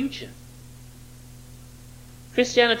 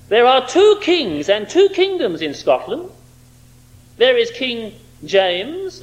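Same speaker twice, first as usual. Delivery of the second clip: defiant address to the king. Retold or imitated. Andrew to King James, defiantly declaring Christ's kingship. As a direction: stand up to the king boldly. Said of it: "Andrew tells him".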